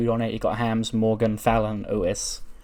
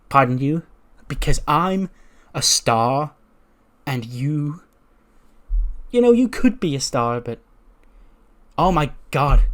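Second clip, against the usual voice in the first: snooty diva insult. Retold or imitated. Tiffany insults Morgan.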